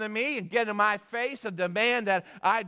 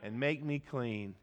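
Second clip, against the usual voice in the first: crying out; slower than usual. Acted. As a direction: call on God, then draw out each word. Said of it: "you need to cry out today".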